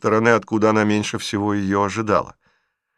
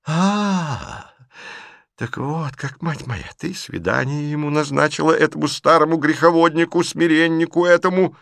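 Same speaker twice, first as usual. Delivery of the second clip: put-on old aunt confronting her niece; agitated old aunt; 7 semitones higher than usual. A narrator's reading. Aunt indignant.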